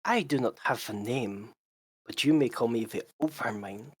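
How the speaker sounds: whispery, otherworldly mind voice; eerie entity voice. Acted. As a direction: speak like a disembodied superior mind.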